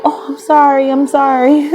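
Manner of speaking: high, pleading sorry with a laugh breaking in; pleading high-pitched apology to the ex's brother; mock frantic apology. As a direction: beg forgiveness in a squeaky, giggly voice. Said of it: "I'm like".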